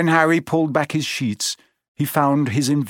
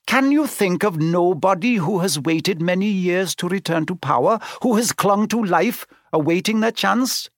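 rising, higher ominous question; ominous centaur; 7 semitones higher than usual. A narrator's reading. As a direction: build dread as the centaur. Firenze speaks.

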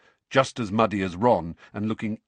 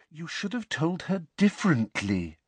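maddeningly patient; 8 semitones higher than usual. A narrator's reading. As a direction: lecture him patiently. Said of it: "still with that maddeningly patient air".

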